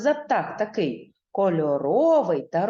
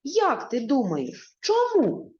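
questioning; 6 semitones higher than usual. Real, not acted. Teacher asks children a question.

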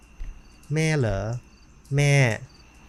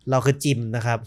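ordinary talk, nothing marked

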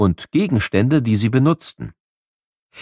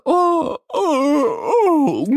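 exhausted groan; much slower than usual. Acted. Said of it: "Und das bei der Hitze".

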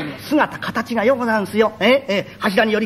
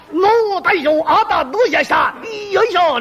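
flattering jester; 6 semitones higher than usual. Acted. Hanger-on flattering a guest.

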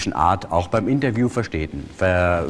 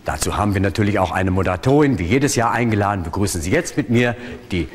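show host announcement; 2 semitones higher than usual. Acted. Hypnotist plays show host.

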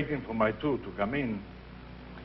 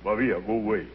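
big voice; 2 semitones lower, slower than usual. Retold or imitated. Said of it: "with the big voice of Giulio Neri".

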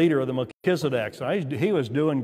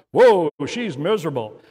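retold call, a bit louder; mock exclamation; 6 dB louder than usual. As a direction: imitate the wife calling out her verdict. Retelling wife's shouted verdict.

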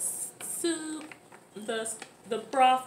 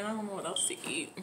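whisper; 5 dB quieter, faster than usual. Real, not acted. Whispers while eating spicy food.

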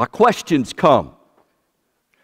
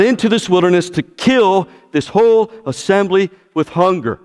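complaining crowd, a bit louder; grumbling Israelites; 3 semitones higher, 3 dB louder than usual. Retold or imitated. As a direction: voice the moaning people in the desert. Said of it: "they say this".

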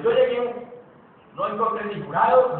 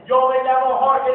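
slow, louder, higher mock introduction; imitating his impersonator; 4 semitones higher, 7 dB louder than usual. Speaker mimicking the comedian who imitates him, mock-grand. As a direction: announce it slowly, as a parody of yourself. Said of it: "un señor que me remeda, sale imitando".

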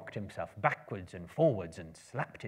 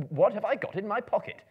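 higher, louder insistent question; 12 semitones higher, 10 dB louder than usual. Acted. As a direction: push the question harder. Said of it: "he said, louder".

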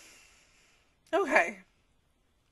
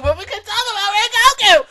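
higher, louder, playful; excited tease; 8 semitones higher, 14 dB louder than usual. Real, not acted. Vlogger teasing viewers about Rengoku, excited.

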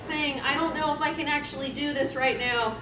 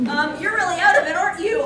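playful; 4 dB louder, faster than usual. Acted. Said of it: "I ask playfully".

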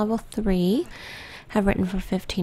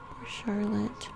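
softer, whispered pity, rising at the end; a hushed poor thing; sorry whisper; 6 dB quieter, slower than usual. Real, not acted. Mourning the dead sim to viewers, a soft pitying whisper.

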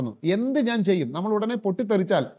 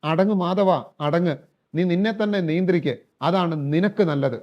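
a bit firmer. Acted. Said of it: "ലേശം കൂടെ strong ആയിട്ട്".

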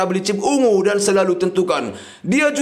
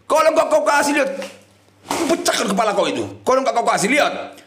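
mock threat; 5 semitones higher than usual. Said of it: "Wah, nggak takut dia".

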